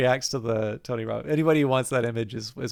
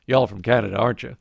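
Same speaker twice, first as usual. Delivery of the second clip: Southern drawl; 4 semitones lower, 3 dB louder, faster than usual. Retold or imitated. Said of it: "I can tell by your accent".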